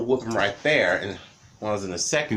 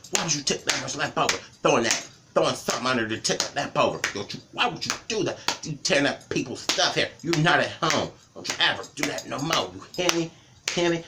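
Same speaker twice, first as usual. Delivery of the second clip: mock parental scolding, rapid and pitched up; retold scolding; 3 semitones higher, faster than usual. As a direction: rattle off the mother's telling-off. Retold angry scolding during whooping.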